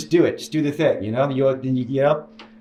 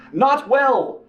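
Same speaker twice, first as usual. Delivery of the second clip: very slow, higher, drawn-out words; dragged out; 10 semitones higher than usual. Real, not acted. To the psych about his state, slow drawn-out stress. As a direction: stretch out each word.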